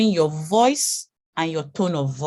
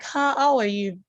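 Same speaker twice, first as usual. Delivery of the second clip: higher-pitched, excited hello; excited greeting; 6 semitones higher than usual. Shown as a demonstration. Speaker showing a changing tone of voice, excited greeting. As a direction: greet someone with acted excitement, pitch lifted. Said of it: "if I am excited".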